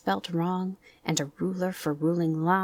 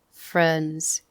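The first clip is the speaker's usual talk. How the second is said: Eeyore's gloomy voice; 4 dB louder than usual. Acted. Eeyore's speech.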